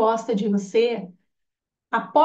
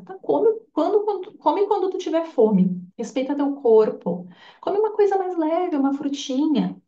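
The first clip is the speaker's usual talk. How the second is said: gentle; 5 semitones higher than usual. Retold or imitated. Gentle advice to an adult.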